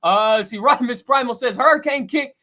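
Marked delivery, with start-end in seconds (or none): 1.6-2.3 game move call. Retold or imitated. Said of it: "when they say it".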